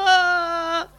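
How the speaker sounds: high loud mock child wail. Crying boy answering the stranger, high wail.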